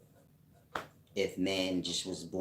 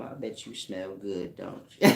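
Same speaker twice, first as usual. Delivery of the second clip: Mac voice; 4 dB louder than usual. Pretend. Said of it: "that's my Mac voice".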